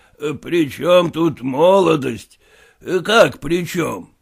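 медленно, ниже, с усмешкой; генерал насмешливо передразнивает вопрос; голос генерала. Acted. General repeats the question. (генерал медленно и насмешливо переспрашивает Куцина)

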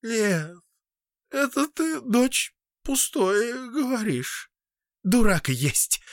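high, lightly voiced young woman; a dismissive young wife brushing him off; Verochka's voice. A narrator's reading.

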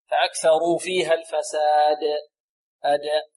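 slow الفساد ending on an echoed د; strong qalqala. Shown as a demonstration. Teacher recites for students, bounced د in الفساد and أد. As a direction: release the final د of الفساد with a bounce. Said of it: "القلقلة أقوى".

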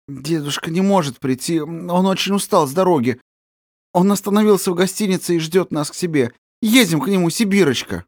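high, flustered urging; a touch of a trembling excited voice; agitated, breaking voice. Acted. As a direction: hurry the girl along nervously. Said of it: "Взволнованным, срывающимся голосом лепетала".

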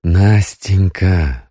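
slow, gentle calling of her name; tender. Acted. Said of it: "ласково сказал Крайнев".

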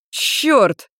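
choking, rasped-out swear; hoarse rasp. A narrator's reading. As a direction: rasp it through a burning throat. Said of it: "просипел он".

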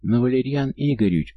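put-on high whining kid voice; whiny child. A narrator's reading. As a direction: whine like a younger child. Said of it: "заныл кто-то из детей помладше".

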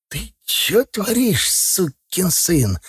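high, slow, drawn-out panicked cry; frightened cry. Acted. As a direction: cry out as you're shoved. Thrown against the wall, afraid.

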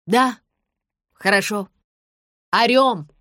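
loud, agreeing yell; shouting back. A narrator's reading. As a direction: bellow it up to her.

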